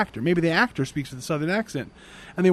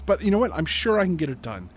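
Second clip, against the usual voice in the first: corrected, upbeat tone. Retold or imitated. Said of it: "Susie kinda corrects her tone and says".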